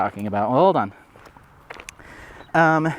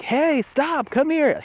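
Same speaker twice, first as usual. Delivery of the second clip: imitating a yelling owner; 14 semitones higher, much slower than usual. Imitating another owner yelling at his loose dog, high mock call. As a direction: mimic a man calling his dog. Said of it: "the guy was yelling at his dog".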